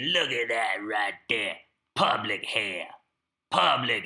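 a hint of a drill instructor pointing out dirt. Drill instructor inspecting the head, lightly imitated bark. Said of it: "He talk like this, yeah, like a voice like this".

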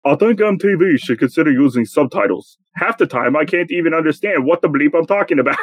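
clumsy attempt at a British accent; badly faked British voice, committed anyway. Host reading a rock singer's quote for guessing, poor British accent. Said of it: "I don't know how to do a British accent".

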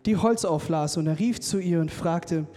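measured Bible reading, slowing on key phrases; solemnly paced scripture read-aloud. Acted. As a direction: read the passage out to a congregation, unhurried. Reads the Bible passage aloud.

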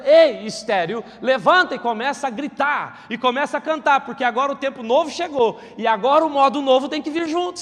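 loud proclaiming shout of God's command; booming call. Acted. Preacher voicing God calling the barren woman to rise, loud.

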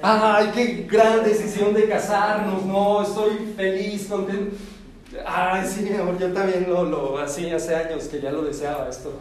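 giggling through a fake-happy reply; half-laughing mock lovey reply; laughing mock agreement. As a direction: answer sweetly while cracking up. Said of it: "y tú".

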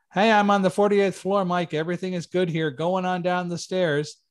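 shouting an all-clear upward; calling up the stairs. Retold or imitated. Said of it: "the next thing I hear".

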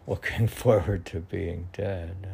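laughing. Real, not acted. Repeating the odd quote, amused.

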